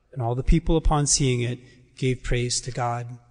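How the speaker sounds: solemn, measured proclamation of the gospel; gospel reading. Acted. Priest proclaiming the Gospel of Luke at Mass, solemn and measured. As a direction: proclaim each phrase clearly to the church.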